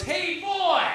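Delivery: high drawn-out hillbilly holler; cartoon hillbilly. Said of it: "cartoon hillbilly".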